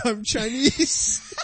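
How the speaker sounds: slow, drawn-out announcement; announcing. Retold or imitated. Friend retelling the joke, slow mock announcement. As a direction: announce it like an introduction. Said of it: "he announces".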